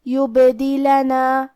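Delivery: "یبدلنا" chanted slowly with a bouncing echo on the b; qalqalah on ba. Shown as a demonstration. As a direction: bounce the unvowelled b in "یبدلنا", drawing the word out. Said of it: "ہم با کو ہلاتے ہوئے یہ کلمہ کو پڑھیں گے". ("یبدلنا" میں با کو ہلاتے ہوئے قلقلہ)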